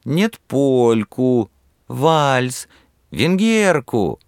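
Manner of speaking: high, slow demanding calls. A narrator's reading. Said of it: "потребовали другие".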